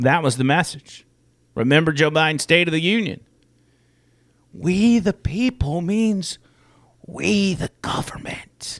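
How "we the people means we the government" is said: put-on old man's whisper, higher. Quoting a line from a State of the Union speech: Joe Biden whisper. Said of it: "In my best Joe Biden whisper".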